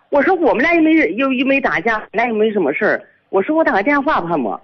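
high-pitched retold protest; retold quarrel. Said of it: "就为这个吵起来了". (转述争辩，高声调抗议)

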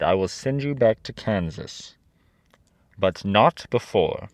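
lightly voiced commanding head; stern head of Oz. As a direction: lay down terms as a great head, a touch stern.

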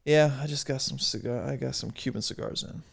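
understated mock brag; offhand boast, imitating a poser; slightly pretentious. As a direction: casually show off, lightly put on. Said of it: "that slightly pretentious posture of".

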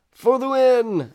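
loud, high, slowed cheer; celebrating a win at the top of the voice. Acted. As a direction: shout it like a victory cry. Cheering the acronym.

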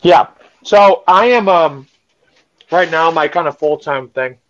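talking while chewing a cherry; mouth full. Real, not acted. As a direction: speak around a mouthful. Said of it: "sorry, I'm eating a cherry".

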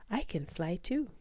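delighted she can fly too; excited. A narrator's reading. Stella Luna realizing she can fly: high excited voice. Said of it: "thought Stella Luna".

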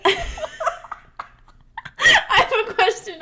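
squeaky seagull-like high pitch. Acted. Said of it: "That was awful".

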